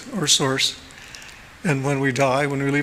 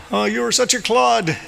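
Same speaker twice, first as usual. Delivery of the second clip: a high, loud, merry cry to a friend; laughing shout; 8 semitones higher, 4 dB louder than usual. Retold or imitated. Master Hu shouting fondly up at God, high and loud. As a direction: bellow it up at the sky, delighted. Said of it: "He would laugh and shout at God".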